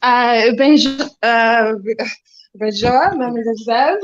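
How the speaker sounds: slow halting mock French accent. Shown as a demonstration. Asked by friends to do French, a hesitant put-on French accent. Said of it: "a French, please?".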